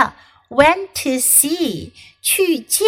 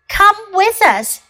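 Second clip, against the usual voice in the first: Deer voice; 9 semitones higher, 4 dB louder than usual. Acted. Deer voiced in read story.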